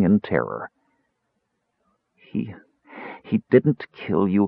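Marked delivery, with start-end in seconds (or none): 2.1-4.5 helpless. A narrator's reading. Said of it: "feeling completely helpless".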